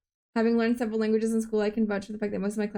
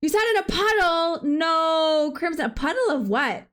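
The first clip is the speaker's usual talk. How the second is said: shocked; 6 semitones higher than usual. Real, not acted. Streamer reacting to Crimson sitting in a puddle, shocked. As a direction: blurt it out in disbelief.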